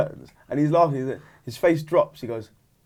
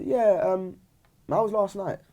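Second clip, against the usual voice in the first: higher, hesitant imitation of an uneasy girlfriend; a bit weird; 6 semitones higher, slower than usual. Girlfriend phones about last night, sounding a bit weird. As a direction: ask it haltingly, voice lifted, slightly off. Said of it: "like, a bit weird".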